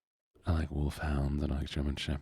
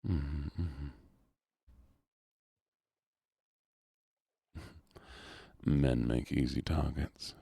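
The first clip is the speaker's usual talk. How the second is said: put-on Southern accent. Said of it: "get out of the southern voice".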